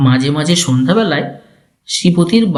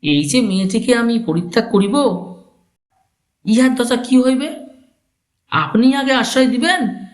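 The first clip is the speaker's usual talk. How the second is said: put-on restrained young husband; 7 semitones higher than usual.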